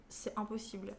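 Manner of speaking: usual speaking voice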